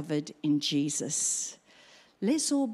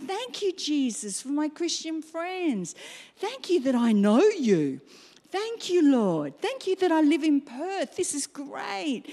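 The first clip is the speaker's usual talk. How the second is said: grateful prayer; 6 semitones higher than usual. Retold or imitated. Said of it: "wake up in the morning and go".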